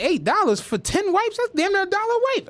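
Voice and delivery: high, fast, indignant about the price; outraged disbelief. Retold or imitated. Shocked at the store counter over a pricey pack of wipes, outraged. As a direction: squawk it like you can't believe the price.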